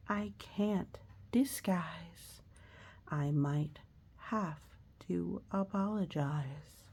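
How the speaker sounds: slow, storybook read-aloud; reading to children. Acted. Teacher reading a picture book to children, slow and gentle. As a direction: read the rhymes gently to kids.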